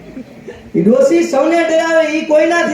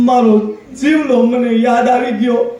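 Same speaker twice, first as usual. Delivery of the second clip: mock weeping old woman. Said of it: "તમે કેમ રોવો હો".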